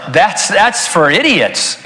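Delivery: slow words through a laugh; laughing scornfully. Real, not acted. Preacher laughing at reincarnation as a loser plan. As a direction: laugh off the idea as foolish.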